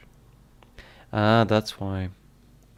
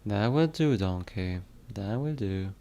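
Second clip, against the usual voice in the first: attempted Scottish accent, easing softer toward the end; bad Scottish accent; 4 dB quieter than usual. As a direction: try a poor Scottish accent. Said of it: "I suck at making a Scottish accent".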